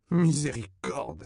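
high, loud drawn-out cry; exclaiming. A narrator's reading. Man steps in dung, cries out. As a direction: cry out to heaven in dismay. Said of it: "s'écria-t-il de nouveau".

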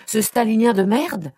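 high, loud, contemptuous outburst; furious yelling. A narrator's reading. Brother insults his sister's fiancé, furious yelling. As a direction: spit out the insult at full indignation. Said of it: "se mit-il à hurler".

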